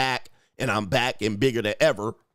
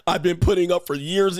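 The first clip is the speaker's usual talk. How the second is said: lightly acted wife, pitched up; aggrieved wife; 5 semitones higher, 3 dB louder than usual. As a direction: read a breakup letter as a wronged wife, mildly hammed-up. Acts out wife's breakup letter.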